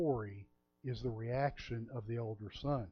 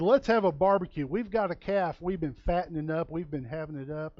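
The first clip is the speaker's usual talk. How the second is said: much louder, eager party call; Texas party version; 3 semitones higher, 5 dB louder than usual. Shown as a demonstration. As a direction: shout it like a Texan ready to feast. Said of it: "That's in the Texas version".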